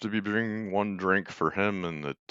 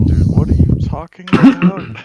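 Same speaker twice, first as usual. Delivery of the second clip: confused; 11 semitones higher, 14 dB louder than usual. Retold or imitated. Mocking confused players.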